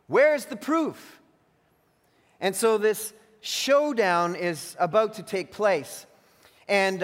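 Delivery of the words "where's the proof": louder, higher and slow, scoffing at a bold claim; sneering challenge. Retold or imitated. Religious teachers scoffing at Jesus, loud slow sneer. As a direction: demand proof with a scornful bite. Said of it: "sneering at Jesus".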